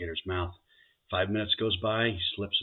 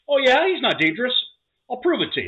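higher and louder, cocky; cocky guy; 9 dB louder than usual. Acted. Man with the alligator reassuring the bartender, cocky and loud. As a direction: brush off the worry with swagger. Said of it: "And he says".

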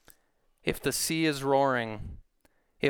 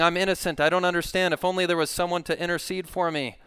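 acted aggrieved plea, higher and louder; raised, pressing protest of a wronged man; protesting to God; 6 semitones higher, 4 dB louder, faster than usual. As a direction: play a sufferer insisting on his case. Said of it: "he's pointing a finger at God as well".

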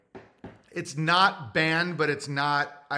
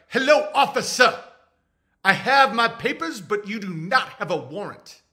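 raised, proper voice to a cop; talking to the officer, firmly polite and raised; mock defiant citizen; 4 semitones higher, 4 dB louder than usual. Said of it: "I would be like".

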